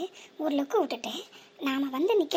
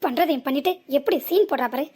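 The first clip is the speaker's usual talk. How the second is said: louder, contemptuous accusing; angry accusation; 5 dB louder than usual. Acted. Driver accuses the fallen woman of running a scam, angrily. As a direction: throw the accusation at her.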